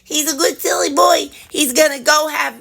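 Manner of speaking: put-on high cooing pet voice telling the old dog he's a good boy; doting dog voice. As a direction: coo at him like a puppy, high and breathy whisper. Baby talk to the dog.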